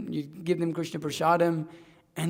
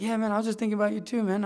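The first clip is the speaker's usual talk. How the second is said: eager reply; 5 semitones higher, faster than usual. Retold or imitated. Brian answering on phone.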